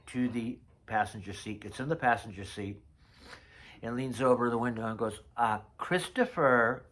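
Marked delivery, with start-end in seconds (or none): 5.4-6.9 Faith's way of saying it. Retold or imitated. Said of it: "that's how she said my name".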